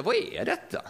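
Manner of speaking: a sudden high astonished question; amazed crowd. Retold or imitated. Bystander in Jerusalem hearing fishermen speak, amazed high question. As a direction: gasp it out as a stunned bystander. Onlookers amazed at the apostles' tongues.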